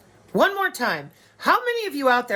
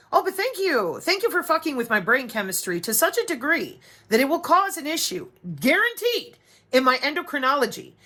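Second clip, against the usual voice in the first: sarcastic thanks; 4 semitones higher than usual. Retold or imitated. Sarcastic mock thanks to abusers.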